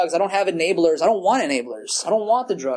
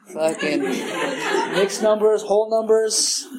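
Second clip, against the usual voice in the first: laughing; 3 semitones higher, much slower than usual. Real, not acted. Amused at studying kid math.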